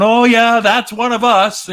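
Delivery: high, loud put-on squeal, slowing down; silly high imitated voice; mock voice. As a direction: squeal it like an excited cartoon critter. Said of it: "they're all going like this".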